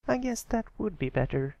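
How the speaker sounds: put-on very high young filly voice; defensive little filly. Sweetie Belle defending her hat, in a very high little voice. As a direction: explain the silly hat earnestly.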